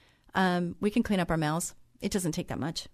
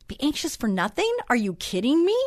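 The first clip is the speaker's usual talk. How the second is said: mock disbelief, pitched up, rising; a lightly voiced "are you kidding me"; incredulous; 4 semitones higher than usual. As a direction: scoff at the verse in disbelief. Incredulous retort to the verse.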